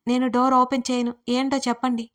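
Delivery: mild shout of open through a locked door. Acted. Trapped woman shouting at men outside the door. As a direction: call out to them from inside the room. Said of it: "లోపల నుంచి గట్టిగా అరిచాను".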